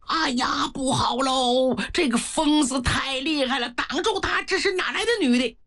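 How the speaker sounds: high, panicky yelling from the wall; panicked guards' cries. A narrator's reading. Palace guards on the wall panic at the madwoman, high frantic cries. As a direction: cry out in alarm as the defence breaks. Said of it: "就听共工的禁卫军喊".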